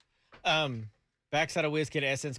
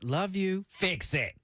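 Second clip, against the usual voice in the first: black mother voice; 4 semitones higher, much slower than usual. Retold or imitated. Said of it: "tapped in way too much into the black mother".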